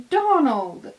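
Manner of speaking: high, loud call of his name; sharp rebuke. Acted. Edward scolding Donald, a high loud rebuke. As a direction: snap his name to stop him.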